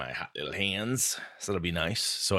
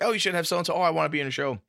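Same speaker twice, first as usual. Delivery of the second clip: mock fan pitch; 11 semitones higher, 5 dB louder, faster than usual. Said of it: "People are like".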